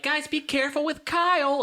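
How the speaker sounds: a hint of a cautioning mother; mock mom. Friend's mom warning kids, lightly voiced caution. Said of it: "mom would be like".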